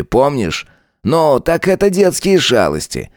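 mocking lieutenant. Lieutenant Saigar mocking Tanya, lightly voiced sneer. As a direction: lean into the lines like a smug bully.

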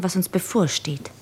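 whispered, foreboding; dark whisper. Acted. Lara darkly whispering about what awaits them. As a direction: let it drop into a whisper. Lara foresees their fate.

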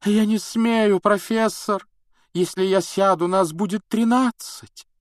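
high, loud, frightened cry; alarmed outcry. A narrator's reading. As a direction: cry out a dire warning. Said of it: "вдруг вскрикнула".

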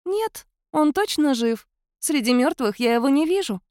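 cat spirit assuring he is alive. A narrator's reading. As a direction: reassure her as the spirit.

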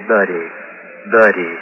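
low, soft crooning "Buddy, buddy, buddy"; gun as mama dog. Acted. Joey voices the gun to Johnny, low and crooning. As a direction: coo it like a mother dog calling pups. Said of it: "Like it was a mama dog".

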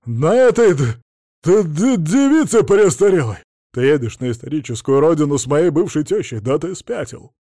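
гневный крик; furious outburst. A narrator's reading. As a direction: swoop on him like an eagle, raging. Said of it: "орлом налетел на адвоката".

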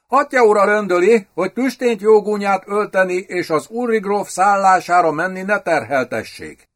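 magasabb hangú, izgatott kancellista; izgatott hírvivő. A narrator's reading. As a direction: add át sürgetően a parancsot. (izgatottan, sürgetve)

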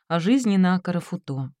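usual speaking voice

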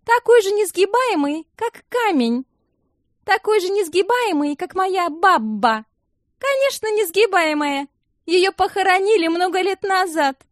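mock him mercilessly; venomous mockery. A narrator's reading. Alsana mocks, venomous. (высокая ядовитая издёвка)

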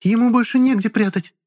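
put-on very high, thin girl's voice; shrill girl voice. A narrator's reading. Charlotte's voiced character.

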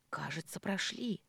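soft, hushed whisper. Acted. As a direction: whisper it close to the door. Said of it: "шёпотом сказал он".

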